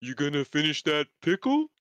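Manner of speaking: lightly voiced country twang; a hint of a southern yokel. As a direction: tease him in a hick voice. Teasing in put-on voice.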